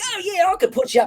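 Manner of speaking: put-on cheery Australian accent. Describing three brothers who all sounded alike, imitating them: put-on cheery Australian accent. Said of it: "they were all Australian, right? And they were like totally cheery".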